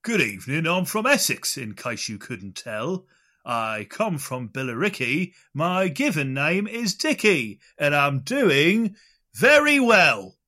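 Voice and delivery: put-on slow loud sung-out Essex accent. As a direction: belt it out in Essex. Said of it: "the fake Essex accent".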